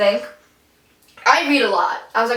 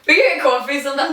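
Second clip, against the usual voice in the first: put-on New York accent; 3 semitones higher, faster than usual. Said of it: "I have a heavy New York accent".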